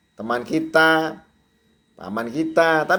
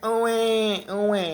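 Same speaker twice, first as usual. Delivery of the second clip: newborn cry imitation; 6 semitones higher, 4 dB quieter than usual. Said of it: "rahim nangis".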